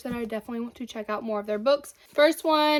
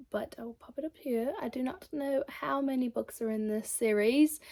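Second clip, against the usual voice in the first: put-on British accent; 3 dB quieter than usual. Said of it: "where did that British accent come from".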